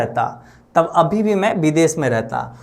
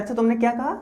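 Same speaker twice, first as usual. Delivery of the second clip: put-on old uncle's voice; 6 semitones higher, 5 dB quieter, much faster than usual. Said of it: "फिर भी नानू काका बोलते हैं".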